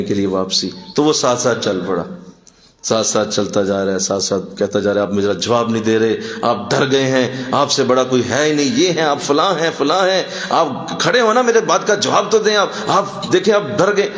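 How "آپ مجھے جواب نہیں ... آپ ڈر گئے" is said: imitated pestering that climbs high; insistent heckling. Heckler follows the scholar home, goading him insistently. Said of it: "بار بار اونچی آواز سے بولتا جا رہا ہے".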